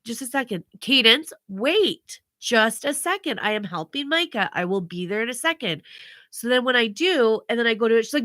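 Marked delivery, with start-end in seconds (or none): 0.8-5.8 strained patience. Retold or imitated. Parent busy helping another child, strained patience. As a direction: stretch it out, firmly holding the child off.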